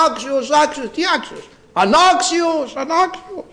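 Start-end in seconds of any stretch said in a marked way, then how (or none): 1.7-3.4 "Ανάξιος" cried much higher and slow, drawn out; mock acclaim of unworthy. Shown as a demonstration. Preacher showing the congregation how to cry unworthy, high slow chant. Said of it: "Έτσι πρέπει να φωνάζουμε".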